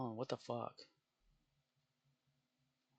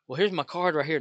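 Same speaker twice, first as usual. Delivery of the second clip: clueless customer; 5 semitones higher, 6 dB louder than usual. Retold or imitated. Customer misunderstanding ID request.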